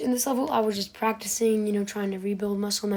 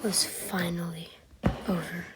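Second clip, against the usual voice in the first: whispering; 4 semitones lower, 6 dB quieter than usual. Acted. Closing whisper.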